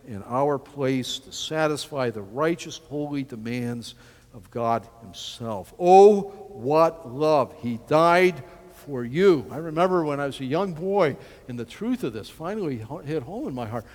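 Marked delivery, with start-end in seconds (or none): 5.8-7.5 awed. Real, not acted. Worshipful exclamation.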